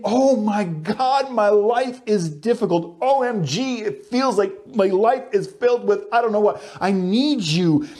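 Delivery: a touch of anguish in the voice; mild desperate cry; distressed prayer. Retold or imitated. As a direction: plead with God, lightly dramatized. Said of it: "he's saying".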